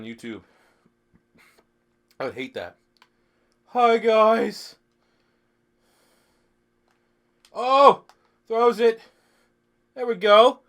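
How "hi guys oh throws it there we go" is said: excited hype. Real, not acted. Hyped after drinking on stream.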